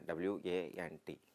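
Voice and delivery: slow, letter by letter; slow classroom spelling of W A N T; spelled out slowly. Shown as a demonstration. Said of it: "வாண்ட் அப்படிங்கிறதுக்கான sign".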